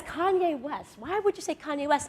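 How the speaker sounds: a laughing, disbelieving repeat of a rapper's name; incredulous interviewer. Retold or imitated. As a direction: play the host who can't believe it. Interviewer baffled by her answer.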